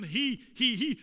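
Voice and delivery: each "he" punched loud; stress on he. Real, not acted. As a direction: hammer out every "he" separately. Repeats the pronoun for emphasis.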